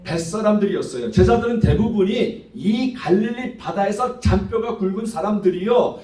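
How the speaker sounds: ordinary delivery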